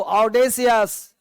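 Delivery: ऑडेसियस said slowly and distinctly, syllable by syllable; slow model word. Shown as a demonstration. Teacher modelling a new word for students, slow and clear. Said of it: "बोलो".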